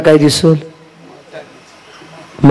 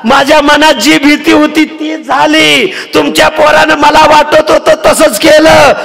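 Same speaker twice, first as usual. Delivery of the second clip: wailing daughter-in-law; 11 semitones higher than usual. Acted. Wife wails to mother-in-law.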